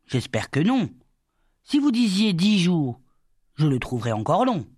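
mildly eager, quick to object; lively protest. A narrator's reading. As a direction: object with a touch of urgency. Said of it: "Il dit vivement".

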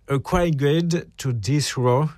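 slow, careful English title in a French accent; self-admitted weak English accent. Real, not acted. Radio host reading an English book title aloud, slow French-accented English. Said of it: "Mon accent anglais n'est pas très bon".

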